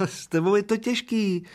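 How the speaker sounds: put-on high, complaining little old man; wailing old man. A narrator's reading. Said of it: "naříkal maličký stařík". (vysoký naříkavý stařík)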